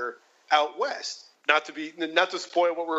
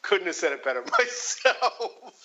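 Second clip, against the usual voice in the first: eye-rolling; 2 semitones higher than usual. Retold or imitated. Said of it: "he's practically rolling his eyes".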